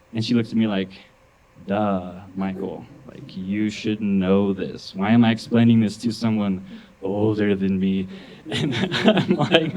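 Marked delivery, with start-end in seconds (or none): 1.7-8.1 slow, exasperated deadpan; dead serious. Retold or imitated. Niece schooling her older uncle, imitated dead-serious exasperation. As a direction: explain it slowly as if to someone dim. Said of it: "just dead serious".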